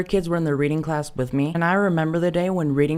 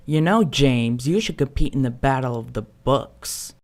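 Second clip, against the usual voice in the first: gentle teacher; 4 semitones lower than usual. Retold or imitated. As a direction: suggest it kindly. Teacher quote, gentle suggestion.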